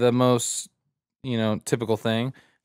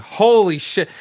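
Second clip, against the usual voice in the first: louder, higher stunned exclamation; awed shock; 7 semitones higher, 5 dB louder, slower than usual. Retold or imitated. Onlooker hearing a prisoner's threat, awed shock.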